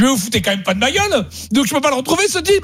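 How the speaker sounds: mock outrage climbing up; rising exasperation; indignant quote. Retold anger at clerk.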